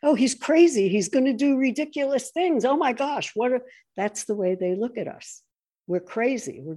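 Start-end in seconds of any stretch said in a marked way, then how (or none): 0.0-3.6 mocking, higher and louder panic; mock alarmed Nancy. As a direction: imitate her shocked dismay. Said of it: "Nancy said it".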